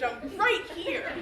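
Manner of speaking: loud, high and drawn out; slow, emphatic cry to be noticed; exasperated shout. Acted. Exasperated repeat, waving at lover.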